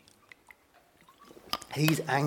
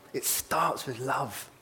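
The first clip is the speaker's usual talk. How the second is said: slow emphasis; much slower than usual. Shown as a demonstration. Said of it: "repeated for emphasis".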